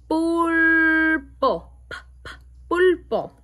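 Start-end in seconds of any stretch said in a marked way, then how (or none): 1.9-3.3 quick drill. Shown as a demonstration. Fast sound drill.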